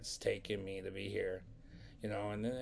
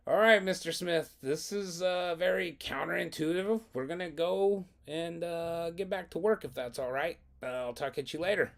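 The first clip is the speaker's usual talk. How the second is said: mock-polite, high-pitched student voice; cheeky sign-off; 7 semitones higher, 4 dB louder than usual. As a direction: breeze out on the principal, voice lifted. Cheeky student excusing himself from principal.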